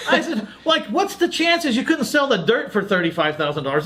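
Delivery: talking through laughter; laughing. Real, not acted. Host telling his partner's deal, laughing through it. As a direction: grin through a teasing question. Laughing while retelling a complaint.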